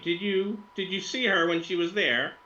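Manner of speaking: put-on high Russian-accented question; lightly voiced Russian woman; Russian woman influencer, inquisitive.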